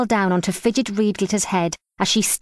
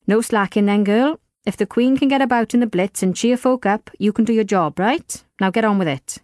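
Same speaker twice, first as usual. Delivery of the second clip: sharp; 3 semitones higher, 3 dB louder than usual. Acted. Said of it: "no need for Bob to be so sharp".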